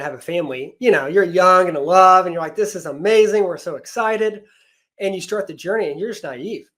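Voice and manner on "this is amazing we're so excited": higher, lightly gushing quote; mildly thrilled, stretching out the excitement; retold excitement. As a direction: imitate a young couple's naive delight. Retold young couple's early joy.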